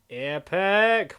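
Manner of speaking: loud, bright exclamation of Epic; a happy blurt of a single word; excited shout. Real, not acted. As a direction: burst out with it like a fan. Reacts to review.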